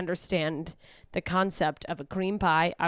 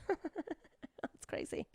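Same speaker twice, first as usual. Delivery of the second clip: slow, much softer, higher drawl; deadpan sarcasm; 8 semitones higher, 11 dB quieter, much slower than usual. Pretend. To the friend bummed by her depression, slow sarcasm. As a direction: drag it out sarcastically.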